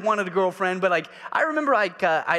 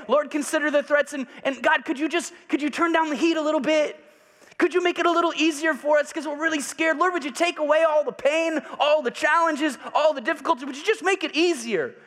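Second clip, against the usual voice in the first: mock timid prayer; 9 semitones higher than usual. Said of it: "And they didn't say".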